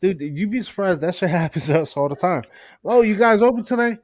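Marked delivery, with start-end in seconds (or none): 2.8-4.0 imitating a customer. Customer voiced in story.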